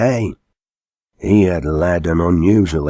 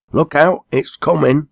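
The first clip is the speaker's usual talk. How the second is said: alarmed warning; 9 semitones higher than usual. A narrator's reading. Ben backing off from the hearse, high frightened warning. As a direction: back away shouting it. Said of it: "retiring from the front".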